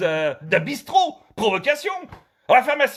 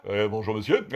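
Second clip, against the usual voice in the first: pharmacist; 9 semitones lower than usual. Acted. Pharmacist answers greeting.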